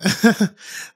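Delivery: awkward, forced little laugh. A narrator's reading. Junjun laughing awkwardly at the old man's joke, forced laugh. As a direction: push out a nervous fake laugh. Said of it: "pilit na tumawa".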